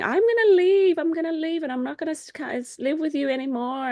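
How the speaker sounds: high mock grandma, loudest at the start and then easing off; imitating grandma's threat. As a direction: whine the threat to leave like the grandma. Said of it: "she kept on saying".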